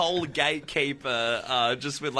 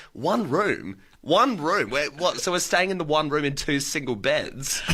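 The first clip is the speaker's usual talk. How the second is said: retold disbelief. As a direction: imitate being taken aback. Retold shock at the sleeping arrangement.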